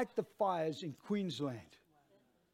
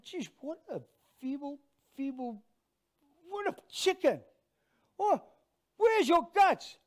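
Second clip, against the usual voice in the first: scornful self-reproach, high-pitched, building to a loud challenge; mock-disgusted pep talk to yourself; self-scolding; 9 semitones higher, 6 dB louder than usual. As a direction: berate yourself for being a coward, louder by the end. Scolds himself in retold thought.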